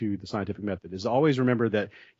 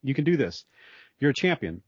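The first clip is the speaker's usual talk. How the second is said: encouraging praise; 3 semitones higher than usual. Retold or imitated. Teacher to struggling students, imitated cheering encouragement. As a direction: cheer them on like an upbeat coach. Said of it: "do you give them encouragement and say".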